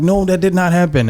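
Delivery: can't believe it happened; disbelief. Retold or imitated. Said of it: "You're like".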